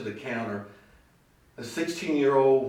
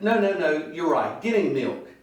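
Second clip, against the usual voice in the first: lightly hollered back to a husband; retold wife hollering across the restaurant; 3 semitones higher, 5 dB louder than usual. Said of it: "she, she hollers back".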